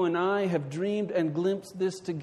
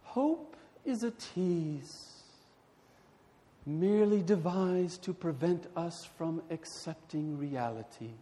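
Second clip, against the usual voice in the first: imperious wealthy widow; 4 dB quieter than usual. Retold or imitated. Dowager Countess voiced in dialogue.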